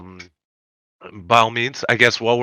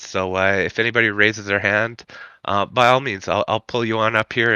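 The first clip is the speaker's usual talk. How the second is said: nasal voice. Real, not acted. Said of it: "my noise, nasally voice right now".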